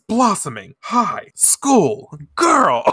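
slow, high dramatic title read; grand announcer. Retold or imitated. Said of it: "it says".

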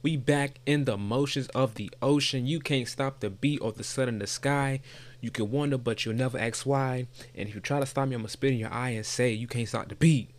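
show intro. Acted. Host greeting listeners with a playful rhyme, performed intro.

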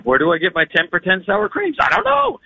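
whining about the sour creams; confused whine. Retold or imitated. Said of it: "And I'm like".

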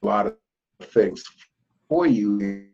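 choppy, breaking-up connection; glitching audio. Real, not acted. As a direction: audio cutting in and out. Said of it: "your sound is breaking up and stopping".

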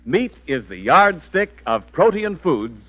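upbeat announcer selling meat; 1940s radio commercial voice; ad read. Acted. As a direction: sell it like a radio ad. Sponsor ad read.

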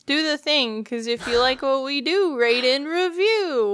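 sing-song high plug; playful high promo; high singsong. Real, not acted. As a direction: chirp the ask. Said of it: "You, you nailed it".

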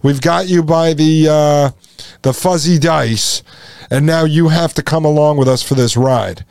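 put-on smug childish gloating; mocking taunt. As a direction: tease them like a gloating kid. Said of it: "'Cause they're saying".

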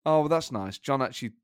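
a hint of a German pundit; lightly voiced football pundit; Didi Hamann impression. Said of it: "That's a really good Didi Hamann".

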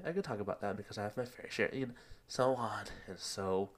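breathless after running; out of breath. Real, not acted. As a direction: talk short of breath, winded. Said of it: "I'm out of breath".

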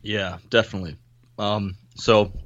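ordinary talk, nothing marked

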